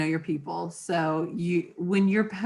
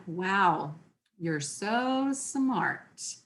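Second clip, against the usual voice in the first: slow, soft, deadpan mock praise; eye-roll sarcasm, unhurried; sarcastic; 4 dB quieter, much slower than usual. Shown as a demonstration. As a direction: drag it out dry and unimpressed. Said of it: "Or it could be read".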